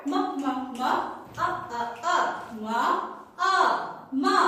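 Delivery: ম and আ in separate beats, then blended into মা; teacher's drill of ম, আ, মা; phonics sounding-out. Shown as a demonstration. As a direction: chant ম, ম, ম, আ, আ, আ, then join as মা. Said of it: "সবাই বলবো আবার".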